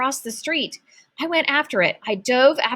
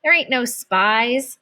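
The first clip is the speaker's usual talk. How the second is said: scoffing; 3 semitones higher, 3 dB louder, slower than usual. Acted. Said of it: "She's joking with you".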